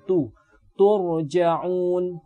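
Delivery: Tu light, then turja'un with only the ra heavy; thin ta, thick ra. Shown as a demonstration. Teacher warning students not to thicken ta: light ta, heavy ra. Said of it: "jangan ditebalkan huruf ta-nya".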